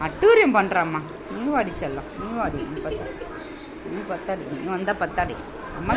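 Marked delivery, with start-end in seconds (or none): 1.3-5.9 low, soft endearment; tender coaxing. Real, not acted. Calling the darling to come along, tender coaxing. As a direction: coax the darling over quietly, voice dropped low.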